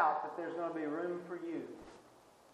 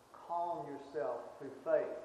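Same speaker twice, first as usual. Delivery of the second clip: calm reassurance; 2 semitones lower, 3 dB quieter, slower than usual. Acted. Soothing paraphrase of Jesus.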